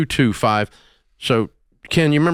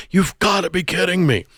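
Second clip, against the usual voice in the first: mock listener yell; 7 semitones higher than usual. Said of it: "that are yelling at you".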